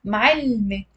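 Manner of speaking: "Ma'alme" as m'all-me, l closing the first beat; crisp two-beat "Ma'alme"; two syllables. Shown as a demonstration. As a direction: say "Ma'alme" with no vowel between l and m. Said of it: "Two syllables".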